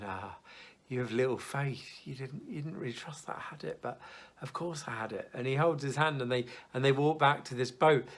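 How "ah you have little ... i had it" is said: gentle reassurance. Retold or imitated. Jesus holding Peter's hand, gentle reassuring. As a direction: reassure him tenderly, no blame. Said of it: "Jesus hand in hand going".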